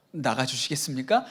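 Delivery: a low, mock-courteous ask; overly polite request. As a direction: ask the devil politely, tongue in cheek. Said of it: "너무 이렇게 점잖아서". (지나치게 점잖게 부탁하듯)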